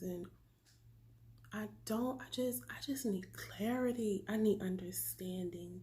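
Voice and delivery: soft, shaken whisper; hushed and unvoiced, close to the mic; real whisper. Real, not acted. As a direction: whisper it like a confession. Confessing fears to her viewers.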